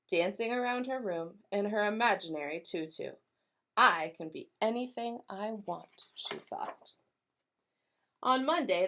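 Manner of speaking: lively read-aloud with voiced characters; storybook narration. A narrator's reading. Teacher reading to kindergartners, animated storytelling. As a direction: tell it like a picture book for kids.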